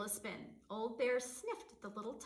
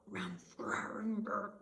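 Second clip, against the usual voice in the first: muttered growls; much slower than usual. Acted. Bear grumbles during the blessing, mild growling. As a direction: grumble under the breath like a bear. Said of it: "Old Bear muttered and growled".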